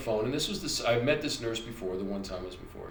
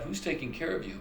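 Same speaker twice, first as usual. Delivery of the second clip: repeating nurse; 5 semitones higher, 6 dB quieter than usual. Retold or imitated. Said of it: "She kept repeating that".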